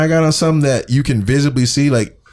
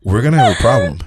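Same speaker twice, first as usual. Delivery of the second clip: polite; 3 semitones lower than usual. Retold or imitated. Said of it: "a little nicer".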